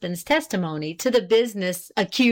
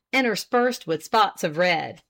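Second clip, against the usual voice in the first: plain reading voice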